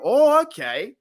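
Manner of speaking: high bright burst of eager discovery; excited fan reaction. Retold or imitated. Fan imagining preseason, suddenly excited. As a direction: leap up like a fan seeing it live. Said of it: "and then we can go".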